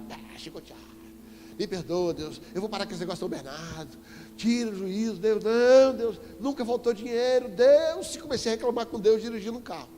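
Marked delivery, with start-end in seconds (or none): 4.4-8.1 louder, higher protest at God; complaining to God. Retold or imitated. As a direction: argue with God, rising in volume. (reclamação alta e indignada com Deus)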